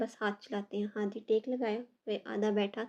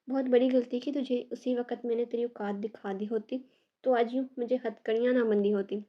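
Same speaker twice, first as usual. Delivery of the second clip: loud, seething threat; handcuffed man threatening her; angry threat; 4 dB louder than usual. Acted. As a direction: spit it at her with contempt. Prisoner threatens Hurain in court.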